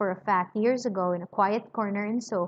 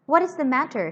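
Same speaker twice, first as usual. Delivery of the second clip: "What is the matter?" snapped out a bit higher and louder; a stranger irritated at being noticed, brisk and curt; vexed abrupt man; 4 semitones higher, 4 dB louder than usual. Acted. Solomon annoyed at the scream, vexed and abrupt. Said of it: "speaking in a vexed, abrupt voice".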